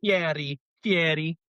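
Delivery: Fieri with the R turned into a D or T; mimicked mispronunciation. Friend mocking a failed rolled R, Fieri with a D. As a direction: say Fieri as if spelt Fiedy. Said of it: "sound like the letter D or a T".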